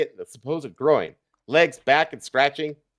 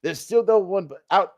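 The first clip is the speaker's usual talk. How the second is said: ordinary delivery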